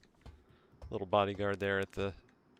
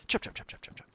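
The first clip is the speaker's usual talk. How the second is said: zombie run noise; faster than usual. Retold or imitated. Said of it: "The new run noise".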